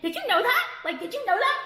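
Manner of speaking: high, laughing sarcastic jab; mock them with a laughing, pointed question. Mocking critics about differing opinions.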